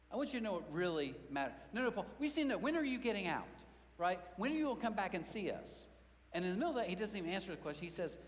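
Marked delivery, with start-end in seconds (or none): 1.7-5.9 higher, urgent pleading questions; pleading church members. Retold or imitated. Church folk pressing Paul in prison, pleading. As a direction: beg for a release date.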